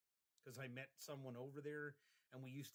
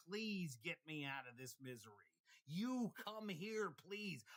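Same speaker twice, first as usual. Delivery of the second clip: loud pleading, high and drawn out on "You come here"; begging plea; 4 semitones higher, 6 dB louder, slower than usual. Retold or imitated. To the threatening guy from the window, begging loudly. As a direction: plead with him desperately, stretching the words. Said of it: "And I begged him".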